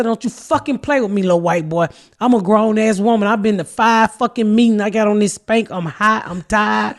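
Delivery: imitating a grown woman chewing him out; retold angry telling-off. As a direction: relive the fury, scolding him hard. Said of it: "that made me so mad with him".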